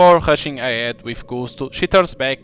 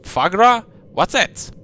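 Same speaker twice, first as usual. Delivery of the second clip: higher and louder, baffled by the word; puzzled question; 9 semitones higher, 3 dB louder, slower than usual. Acted. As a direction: ask as if you've never heard it.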